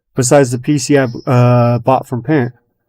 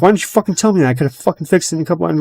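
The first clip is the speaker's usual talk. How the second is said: higher, fast, retelling an exasperated rant; exasperated demand; 5 semitones higher, much faster than usual. Retold or imitated. Telling her off for hiding the PC damage, higher and fast. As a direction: fire off the complaint quickly, pitched up. Retold confronting her about PC.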